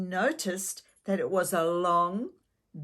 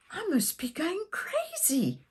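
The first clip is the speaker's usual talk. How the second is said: higher, lightly voiced girl thinking; a hint of disbelief to herself; dazed girl doubting her own eyes; mild inner thought; 10 semitones higher, 3 dB quieter than usual. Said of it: "she thought".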